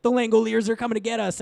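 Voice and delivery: a hint of a frantic businessman; mock ominous warning. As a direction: panic like a paranoid businessman. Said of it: "will be like".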